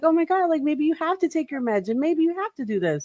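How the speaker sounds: high, airy helpless voice; a breathless damsel pleading with her partner; helpless princess. Acted.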